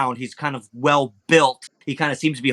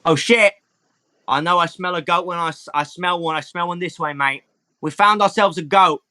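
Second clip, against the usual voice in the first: higher-pitched, excited goat-sniffer; hint of a cheeky, higher character voice; lightly voiced Hermes; 4 semitones higher than usual. Game master as Hermes sniffing out a goat, lightly voiced.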